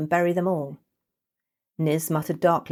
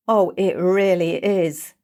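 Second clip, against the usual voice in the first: gleeful retort; 3 semitones higher, 6 dB louder, slower than usual. Acted. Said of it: "Niz countered".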